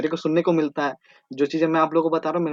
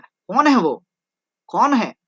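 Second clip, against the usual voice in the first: mock suspense; 4 semitones higher, 6 dB louder, slower than usual. Teacher dramatising a sudden man.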